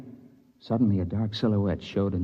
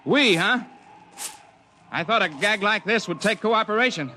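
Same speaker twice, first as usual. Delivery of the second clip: narrator's younger self in the crevasse; 13 semitones higher than usual. Acted. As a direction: shout up the ice wall, cheerful and relieved.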